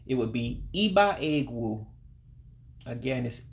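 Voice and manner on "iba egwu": iba egwu, opening on a high ee; high I sound. Shown as a demonstration. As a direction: say iba egwu as a careful pronunciation model. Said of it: "real, real high I sound".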